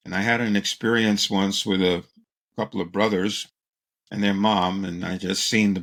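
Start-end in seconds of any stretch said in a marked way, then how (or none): none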